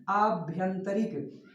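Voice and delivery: आभ्यंतरिक very slow, syllable by syllable; teacher dictates आभ्यंतरिक slowly; slow careful pronunciation. Shown as a demonstration. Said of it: "बड़ा आ और या में मात्रा नहीं".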